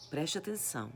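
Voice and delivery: hushed, unvoiced whisper; whispered aside. Real, not acted. Preacher whispers to her congregation to pay attention. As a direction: drop to a whisper to grab attention.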